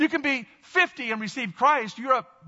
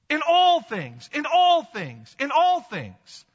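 slow emphasis; 3 semitones higher, 5 dB louder, slower than usual. Real, not acted. Repeated emphatic phrase.

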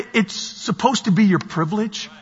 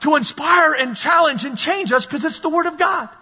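forceful preaching; 5 semitones higher than usual. Real, not acted. Preacher exhorting the congregation.

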